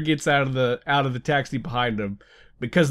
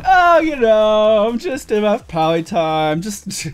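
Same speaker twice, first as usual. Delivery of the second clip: slow, pompous brag, louder on the oh; mock self-important; 4 dB louder, slower than usual. Introducing himself to someone important, hammed-up slow pompous brag. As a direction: ham up the big-shot YouTuber bragging. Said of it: "whenever I introduce myself to someone important".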